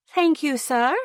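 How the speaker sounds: mock-posh British thank-you, tossed off brightly; hammed-up British accent; fake British accent. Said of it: "in a fake British accent".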